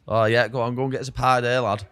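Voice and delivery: imitated St Helens lad; light take on a St Helens accent. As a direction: mimic a mate from St Helens. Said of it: "he talks like this".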